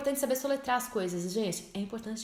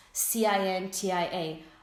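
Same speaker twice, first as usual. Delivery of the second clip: letters grouped, slowly; slow spelling demo; much slower than usual. Shown as a demonstration. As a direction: spell it out deliberately. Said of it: "começar essas respostas com it's".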